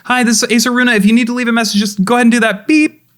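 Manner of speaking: high, loud, hurried voicemail message; rushed voicemail greeting. Acted. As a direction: rattle off a quick answering machine greeting. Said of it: "She calls again".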